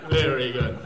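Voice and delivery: loud, slow, low European approval; measured European-accented appreciation. Acted. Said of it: "The Europeans are going".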